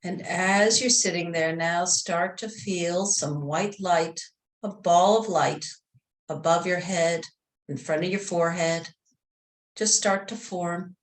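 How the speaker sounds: calm meditation voice, long pauses between phrases; guided meditation. Real, not acted. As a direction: gently guide them into relaxation.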